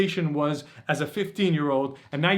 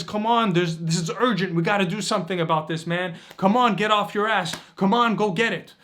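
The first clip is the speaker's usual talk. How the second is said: urgent inner calling; 3 semitones higher than usual. Retold or imitated. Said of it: "It's that inner calling that says".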